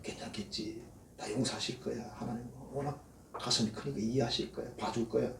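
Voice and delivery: soft, half-voiced careless self-assurance; quiet, lazy voice of a believer taking God lightly; complacent murmur. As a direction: breathe it lightly, shrugging off the danger. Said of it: "하나님을 너무 얕잡아 보고 있어요".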